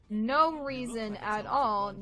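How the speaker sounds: slow, knowing tease; sly denial. Real, not acted. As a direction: drag it out like a joke nobody believes. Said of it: "for no reason at all".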